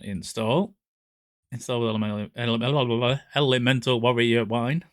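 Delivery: flat robot voice. Real, not acted. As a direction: read it like a robot. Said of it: "You say it like a robot".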